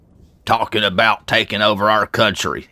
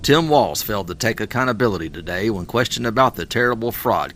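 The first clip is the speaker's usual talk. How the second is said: parody news anchor; 4 dB quieter than usual. Acted. Reads a mock news report.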